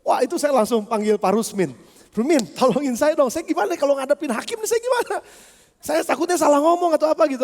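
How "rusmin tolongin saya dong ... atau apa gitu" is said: mock-flustered plea, pitch jumping higher; higher-pitched, worried begging in a retold quote; anxious plea. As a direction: re-enact asking a friend for help, a bit panicky. Retells his anxious plea for help.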